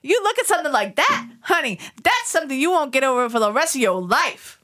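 put-on landlady telling reporter she never went back, New York accent. S2 voices Lois in the story.

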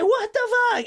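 high, startled disbelief; shocked outburst. Retold or imitated. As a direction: blurt it out in shock. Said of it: "everyone's like".

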